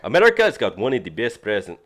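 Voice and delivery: failed attempt at a Ugandan accent. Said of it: "I kinda wanna read this with the Ugandan accent".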